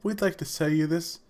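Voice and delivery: lightly imitated posh British accent; posh British gentleman. Salesman pitching a DVR, in a posh British accent. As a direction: sales patter in a mock upper-class British accent. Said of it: "posh British gentleman".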